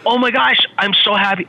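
a touch of retold joy; excited. Retelling the job offer to the host, mildly excited. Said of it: "I was so excited".

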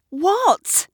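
sharp, high-pitched question; demanding. A narrator's reading. Kat wants to know what they think, demanding. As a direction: insist on being told. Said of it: "demands Kat".

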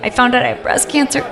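high and soft, a hint of a fan's emotion; gently voiced fan sharing bad news; softly retold confession. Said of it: "she's like".

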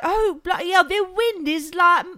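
high, exaggerated British accent; complaining Brit in a hammed-up British accent; terrible British impression. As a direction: ham up a bad British accent, pitched high. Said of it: "That was my terrible British impression".

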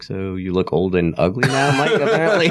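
teasing quote breaking into a laugh, pitch jumping up; laughing mock jab. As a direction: laugh through the mock insult. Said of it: "I was like".

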